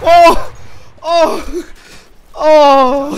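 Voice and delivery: loud high excited yells; excited shouts. Real, not acted. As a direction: shout in delight. Round going his way.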